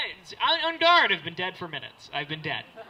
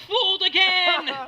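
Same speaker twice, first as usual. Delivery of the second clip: slow, high, loud cry; hammed-up wail of defeat; foiled villain yell; 12 semitones higher, 10 dB louder, slower than usual. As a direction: draw it out like a thwarted cartoon villain. Acted robber crying out, foiled.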